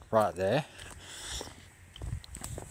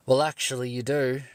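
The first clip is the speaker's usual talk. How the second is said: a touch higher, smug officer correcting him; smug cop retort; 4 semitones higher than usual. Retold or imitated. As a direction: mimic the cop's know-it-all correction. Cop's smug retort retold.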